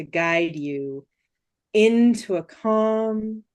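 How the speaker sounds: hypnotic voice. Shown as a demonstration. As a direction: ease them into calm, slowly. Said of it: "that voice".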